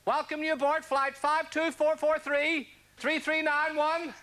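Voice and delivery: a hint of a captain making announcements, unhurried; airline pilot impression. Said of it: "an impression of an airline pilot".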